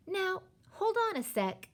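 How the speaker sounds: high-pitched, excited halt; bright idea striking a child; eager interruption. A narrator's reading. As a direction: cut in with a sudden thought.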